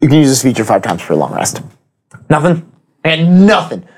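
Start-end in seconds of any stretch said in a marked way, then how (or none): 2.3-3.8 lightly raised lady voice; a hint of a woman's voice; man doing a woman's voice. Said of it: "my lady voice is starting to become".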